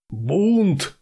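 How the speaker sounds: high, loud furious roar. A narrator's reading. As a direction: bellow the word in rage. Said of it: "взревел тактик". (яростный рёв)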